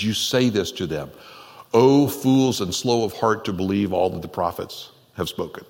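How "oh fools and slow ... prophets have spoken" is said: harsh rebuke. Retold or imitated. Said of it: "Is that the first word to come out of your mouth".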